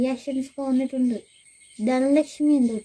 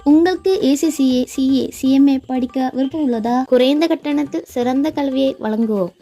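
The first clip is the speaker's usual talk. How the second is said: Tamil pitch; 6 dB louder than usual. Acted. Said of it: "തമിഴിൽ dialogue അടിച്ചു വിടുന്നു".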